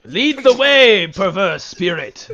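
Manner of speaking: grand royal command, drawn out; regal mushroom king. Acted. Mushroom King addresses spirit.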